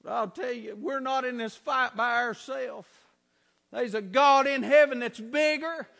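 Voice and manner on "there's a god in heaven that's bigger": slowing, swelling to a loud shout; climactic preaching. Real, not acted. Preacher assuring congregation God is bigger, climactic shout. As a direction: build steadily to a shouted peak on change.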